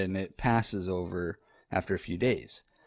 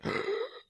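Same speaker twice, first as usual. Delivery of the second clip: imitated speechless intake of breath; short voiceless gasp, acting overwhelmed; 6 dB quieter than usual. Husband showing how overwhelmed he was, wordless gasp. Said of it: "overwhelmed to the point".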